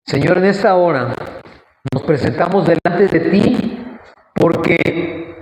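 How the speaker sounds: fervent spoken prayer to God; earnest prayer. Real, not acted. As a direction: plead with the Lord on the people's behalf. Leads the congregation in prayer.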